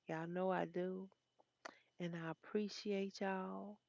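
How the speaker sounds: sleepy whisper, nodding off. Real, not acted. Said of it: "y'all see I'm falling asleep".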